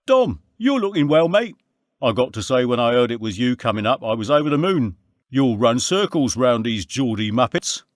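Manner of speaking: high, bright Londoner greeting his mate; London lad greeting a friend, high and loud; Andy's cheery greeting. A narrator's reading.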